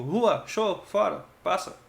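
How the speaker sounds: mock chase a dog off the porch; shooing the dog. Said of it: "expulsando o pobre do cachorro".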